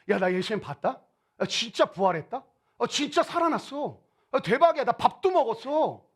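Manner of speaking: acting out mildly excited news; excited disciple. Two disciples telling the others they saw Jesus, excited. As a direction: eagerly report it, with rising pitch on the exclamations. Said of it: "두 제자가 흥분해서".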